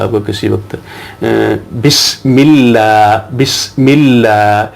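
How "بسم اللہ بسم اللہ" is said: بسم اللہ with the لام held double, slow; doubled lam. Shown as a demonstration. Teacher demonstrating the shadda in بسم اللہ, slow and careful. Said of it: "یعنی double یہ لفظ ہوتا ہے".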